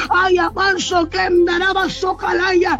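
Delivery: fervent tongues between prayer lines; speaking in tongues. Real, not acted. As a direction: let the tongues pour out.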